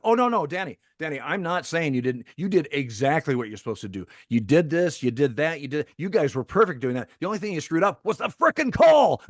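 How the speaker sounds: building to a shout. Retold or imitated. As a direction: imitate the manager winding up to a big shouted punchline. The speaker explaining, ending in outburst.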